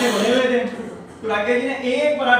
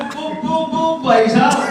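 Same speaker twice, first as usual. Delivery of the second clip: put-on stuttering boy; 5 semitones higher, 4 dB louder, slower than usual. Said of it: "तुतला के बोलता है".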